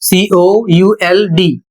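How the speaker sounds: slow letter-by-letter spelling; spelling it out for students; spelled out. Shown as a demonstration. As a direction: spell सीओयूएलडी slowly, letter by letter. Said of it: "अगला शब्द है कुड".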